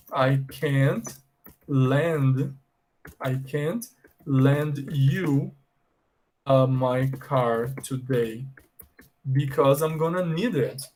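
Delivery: slow, word by word teaching pace; slow example. Pretend. Teacher playing the mom, a slow clear refusal. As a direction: spell out the refusal slowly for learners. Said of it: "imaginem que ela fala assim".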